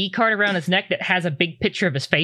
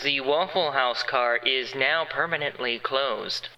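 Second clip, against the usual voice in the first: lightly voiced PA announcement, softer; airport announcement; 4 semitones lower, 5 dB quieter than usual. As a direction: read it like an intercom notice. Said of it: "the announcement is".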